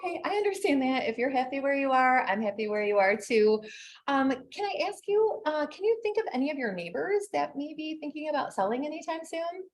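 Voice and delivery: sweet as pie on the phone; sugary sweet. Acted. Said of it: "like, so sugary sweet".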